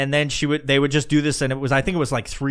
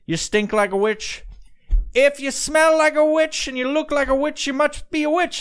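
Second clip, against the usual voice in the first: King James; 9 semitones higher than usual. Acted. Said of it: "brought in before King James, and he did his little thing".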